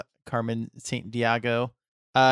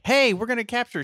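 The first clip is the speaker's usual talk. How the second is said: cartoon character voice; 11 semitones higher, 3 dB louder, faster than usual. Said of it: "Carmen Sandiego is like".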